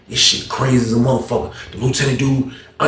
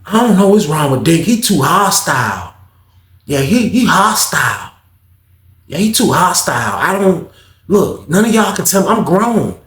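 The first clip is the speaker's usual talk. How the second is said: higher, slow, dismissive drawl; lightly voiced Peanut; 5 semitones higher, slower than usual. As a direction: brush it off like a kid who's grown. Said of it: "Peanut was like".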